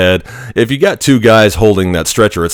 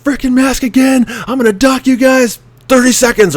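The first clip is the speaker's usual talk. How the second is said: much higher mock drill-instructor yell; imitated screaming. Instructor Teeth threatening the platoon with a time penalty, mock yell. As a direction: threaten the recruit at the top of your lungs. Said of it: "He starts screaming".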